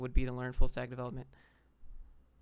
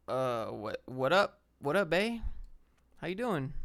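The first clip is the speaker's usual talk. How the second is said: flirty greeting; slower than usual. Acted. Playful reply to hello dear.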